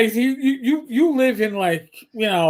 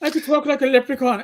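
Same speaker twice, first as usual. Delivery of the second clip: lilting, higher Irish brogue; 4 semitones higher than usual. Shown as a demonstration. Cop shows off his Irish brogue on a podcast, lilting. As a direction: talk like a stage Irish leprechaun. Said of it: "Oh, it's the Irish brogue".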